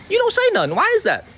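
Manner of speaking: high-pitched, riled-up challenge; worked up. Real, not acted. Streamer confronting silent critics, really worked up. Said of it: "I'm sorry for getting worked up".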